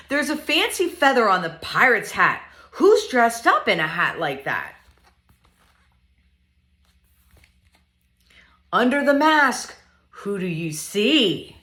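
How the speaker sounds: lively, sing-song picture book reading; reading to children. Acted. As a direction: read it playfully to little ones.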